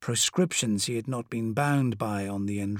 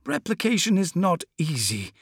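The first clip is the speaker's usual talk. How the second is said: squirming excuse; 6 semitones higher than usual. Acted. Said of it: "squirming excuses".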